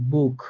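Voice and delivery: বুক ending in a throaty খ sound; careful demo word বুক, final ch as kh; German pronunciation. Shown as a demonstration. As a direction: model বুক for the class with a kh at the end. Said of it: "বুক অর্থাৎ খ এর মতো করে হয়েছে".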